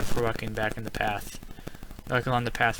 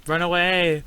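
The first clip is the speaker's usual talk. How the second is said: high, loud cry to flee; raised-voice panicky urging; urgent yell; 6 semitones higher, 5 dB louder, slower than usual. Real, not acted. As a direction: yell it out, pitched up. Repeats the urge to flee.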